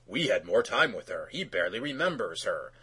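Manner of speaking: low, soft mock consoling; compassionate. Podcaster imitating the dad excusing his son, low compassionate murmur. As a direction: imitate an understanding dad, voice dropped and softened. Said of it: "Instead of being compassionate".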